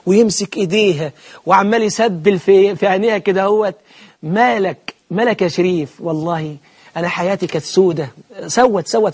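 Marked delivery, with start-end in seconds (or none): 4.2-8.1 soft, mock tender lover's murmur; a hint of a swooning suitor; mock lovestruck. Preacher mocking a young man wooing a girl, softly. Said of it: "يقعد قدامها كده بخشوع".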